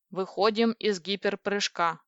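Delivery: slow, measured status report; computer announcement. Acted. Kompi reporting the exit from hyperjump, measured. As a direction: state it evenly and deliberately.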